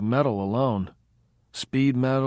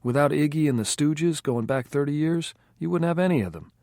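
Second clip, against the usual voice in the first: higher and louder, a fired-up music buff; Curtis getting worked up; 6 semitones higher, 4 dB louder than usual. A narrator's reading. Curtis lecturing the band, fired up and insistent. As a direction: build up the rant about a singer.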